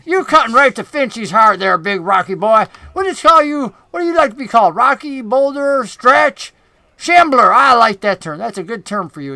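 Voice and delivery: butter up the rock creature as a greasy goblin; goblin boss voice. Acted. GM voices goblin Finch flattering.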